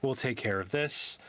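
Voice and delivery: mildly resigned, voice dropped; resigned sigh. Acted. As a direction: say it with a touch of a weary sigh. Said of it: "just kinda sighs and goes".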